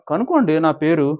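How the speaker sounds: imitating an offended celebrity; acted affronted demand. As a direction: throw it back forcefully. Acted offended reply about her name.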